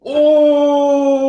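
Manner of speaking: sudden high shocked cry; surprised shout. Real, not acted. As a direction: yelp of surprise. Shock at a miss.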